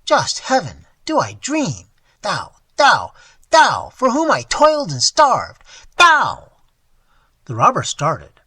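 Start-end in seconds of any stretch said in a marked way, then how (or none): 0.1-6.5 put-on old man's cry rising to a shriek, louder and higher; a betrayed old man crying out at his thief; anguished outcry. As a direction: build from shock to a piercing shriek. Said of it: "At last he sprang from his bed".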